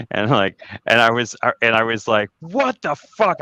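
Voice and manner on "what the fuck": drawn-out high mock outrage; retold anger. Man retells being ripped off in his car, retold anger. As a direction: stretch it out high, reenacting disbelief. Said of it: "I got really mad".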